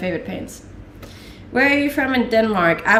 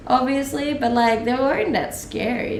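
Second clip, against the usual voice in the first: ordinary talk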